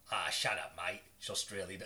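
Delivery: put-on lightly done Australian accent; a hint of an Australian girlfriend; mild mock Australian twang. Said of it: "the wicked impression".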